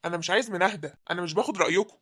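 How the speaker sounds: loud, hard, final orders; angry ultimatum. Acted. Son-in-law to his wife's family, an angry loud ultimatum. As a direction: shout them down, no room to argue.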